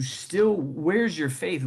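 slow, drawn-out rebuke with weight on still; Jesus rebuking. Retold or imitated. Preacher voicing Jesus chiding the frightened disciples, slow.

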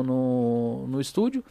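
ordinary delivery

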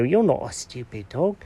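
cat comforting the hurt dog, softly; soft reassurance. Acted. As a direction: say it quietly to comfort him. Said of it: "Oh, buddy, I'm so sorry".

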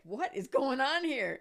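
slow, high baffled question; bewildered. Retold or imitated. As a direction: wonder what on earth is happening. Matt's bewildered look, voiced.

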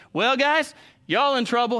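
a gleeful singsong jab; taunting big brother. Retold or imitated. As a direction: tease the little brothers like a know-it-all ten-year-old.

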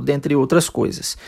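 ordinary talk, nothing marked

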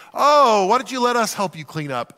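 a light polite guest offering to help. Retold or imitated. Guest politely offering to clean up, lightly mocked. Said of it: "say something polite like".

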